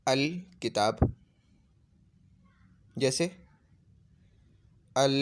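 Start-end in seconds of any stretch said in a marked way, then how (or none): 0.1-1.1 अल किताब said slowly with clear Arabic al; drawn out like a model word; Arabic example. Shown as a demonstration. Teacher giving Arabic examples, slow and clear.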